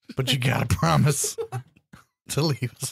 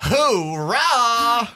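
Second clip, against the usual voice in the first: loud high hoorah; military cheer; 10 semitones higher, 4 dB louder than usual. Acted. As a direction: shout it like a soldier. Recruit cheering.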